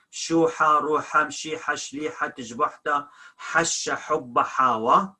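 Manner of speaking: shuha, ruha, mshiha with a breathed h; religious-word h. Shown as a demonstration. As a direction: list hasha, hubba, hawa without rasping the h. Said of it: "it sounds he when the word is religion".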